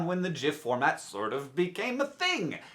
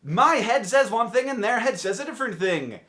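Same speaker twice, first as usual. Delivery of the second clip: indignant mimicry; 4 semitones higher than usual. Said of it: "you were like".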